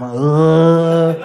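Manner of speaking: long queasy groan; mock retch. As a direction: let a retch swallow the word. Mitchell retching mid-promise.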